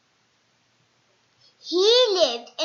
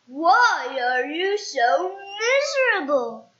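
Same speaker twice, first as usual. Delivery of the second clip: slow, curious Mister Happy; 3 semitones higher, 6 dB louder, slower than usual. Acted. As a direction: ask him gently but puzzled. Mister Happy asks kindly.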